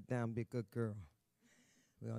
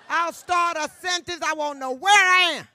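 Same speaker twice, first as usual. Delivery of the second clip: excited loud; 14 semitones higher, 16 dB louder than usual. Pretend. Joking about her bad memory.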